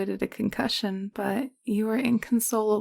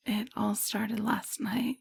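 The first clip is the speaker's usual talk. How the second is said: slow whisper; 5 dB quieter, slower than usual. Acted. Beginning a story softly.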